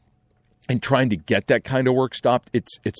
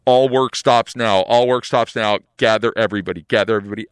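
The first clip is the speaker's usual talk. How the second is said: radio order; 3 dB louder than usual. Retold or imitated. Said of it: "Pete's like".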